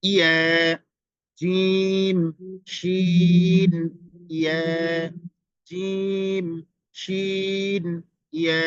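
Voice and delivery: strong "ইয়া" with stretched "শিন"; teacher stressing the letter ya; forceful ya. Shown as a demonstration. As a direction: say "ইয়া" hard and firm. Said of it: "ইয়াটা খুব শক্তভাবে উচ্চারণ হবে".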